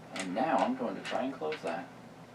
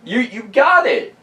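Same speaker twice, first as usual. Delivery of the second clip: high, loud laughing tease; 14 semitones higher, 12 dB louder than usual. Real, not acted. Teasing laugh at other player.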